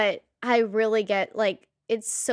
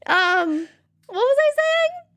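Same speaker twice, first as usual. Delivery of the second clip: laughing; 6 dB louder, slower than usual. Real, not acted. Recovering from laughter.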